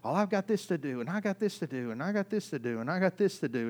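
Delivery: mock grumbling list; the flesh whining through prayer, mildly mock-grumbling; complaining. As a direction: grumble the chores like a sulking flesh. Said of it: "The whole time it's complaining".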